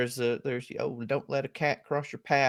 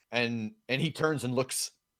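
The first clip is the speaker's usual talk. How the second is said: ordinary talk, nothing marked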